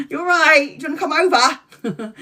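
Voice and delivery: high, bright-voiced make-up greeting; overly sweet reconciliation call; sheepish sweet hello. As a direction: chirp it back sweetly, laughing a little. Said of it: "And then I'll be like".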